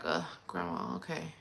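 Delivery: very low, soft mock groan; subdued reaction. Grandchild responding to upset grandma, subdued and low. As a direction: drop low and quiet, as a retold sigh.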